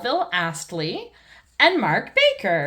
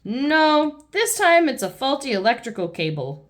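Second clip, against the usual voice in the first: Mister Bull; 4 semitones higher, 3 dB louder than usual. Acted. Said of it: "says Mister Bull".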